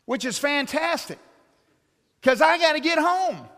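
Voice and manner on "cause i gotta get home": louder and higher, exasperated; frustrated emphasis. Real, not acted. Stranded preacher venting at running out of gas, exasperated. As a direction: hit the frustration hard.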